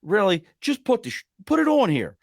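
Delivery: exasperated disbelief rising to a squeak; incredulous. Retold or imitated. The locals scoffing at a reviewer who wants flavors mixed, climbing high. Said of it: "to us, it was like".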